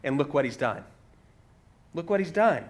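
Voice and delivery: mildly sarcastic retort; sarcasm. Retold or imitated. Healed man to the religious experts, with mild sarcasm. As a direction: retell it with a touch of mock admiration. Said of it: "you hear the sarcasm".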